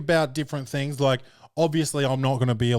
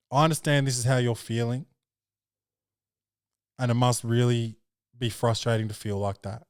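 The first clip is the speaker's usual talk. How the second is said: therapy speech. Shown as a demonstration. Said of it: "like, therapy speech".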